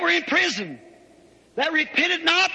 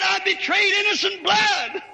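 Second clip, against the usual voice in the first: raised, higher preaching cry; impassioned confession; 4 semitones higher than usual. Acted. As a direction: proclaim it as an anguished admission from the pulpit. Preacher voices Judas's confession.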